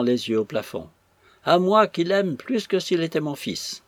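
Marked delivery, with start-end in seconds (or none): 1.4-3.8 high-pitched, hammed-up reproach; wounded exclamation. A narrator's reading. Old woman claiming motherly love for him, wounded exclamation. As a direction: protest your love on a raised note. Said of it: "s'écria la vieille".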